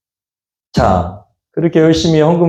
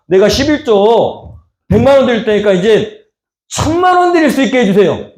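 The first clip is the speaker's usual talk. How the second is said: higher-pitched, wheedling bargain; pushy pleading; 4 semitones higher than usual. Acted. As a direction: act out a believer pressing God for favours. Voicing a bargaining prayer to God. (조르듯 요구하는 기도 말투)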